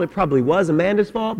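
ordinary talk, nothing marked

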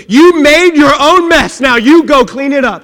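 loud, emphatic order; acted-out stern command; firm scolding. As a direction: lay down the law to a friend. Jesus orders Simon to fix it.

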